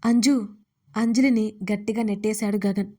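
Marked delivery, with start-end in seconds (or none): 0.0-0.5 sharp call. Acted. Gagan shoves Anjali away.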